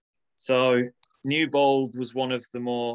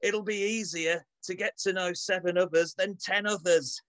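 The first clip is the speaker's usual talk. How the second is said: put-on Manchester accent; 5 semitones higher than usual. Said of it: "in my best Manchester accent".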